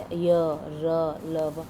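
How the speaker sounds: "य, र, ल, व" pushed out with breath from the belly; each letter driven by air from the stomach; showing the class how the semivowels feel; forced from the belly. Shown as a demonstration. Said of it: "हवा जो पेट में बल पड़ता है".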